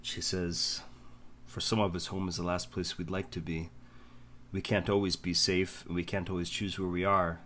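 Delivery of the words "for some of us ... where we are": gentle encouragement. Acted. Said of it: "kneels down ... hand on your shoulder".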